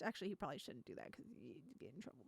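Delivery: fast, dropped-voice afterthought; quick quiet aside. Real, not acted. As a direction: mutter it fast under your breath.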